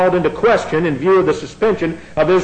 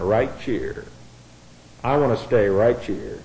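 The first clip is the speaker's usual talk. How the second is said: North Carolina drawl; 7 semitones lower, 6 dB quieter than usual. Shown as a demonstration. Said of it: "we'll put it in the vernacular of North Carolina".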